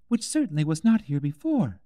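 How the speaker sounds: put-on high, brighter girl's voice; young girl musing aloud; Alice. A narrator's reading. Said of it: "said Alice".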